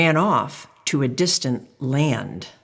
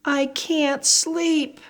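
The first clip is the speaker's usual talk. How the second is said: put-on child voice; 10 semitones higher, slower than usual. Spoon at night.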